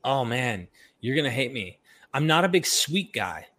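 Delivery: normal talking voice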